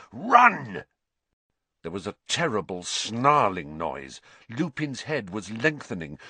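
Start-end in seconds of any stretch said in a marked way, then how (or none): 0.1-0.8 high, loud cry to flee; urgent shout. A narrator's reading. Sirius holds Harry back from the werewolf, shouting urgently. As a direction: yell it as an urgent order.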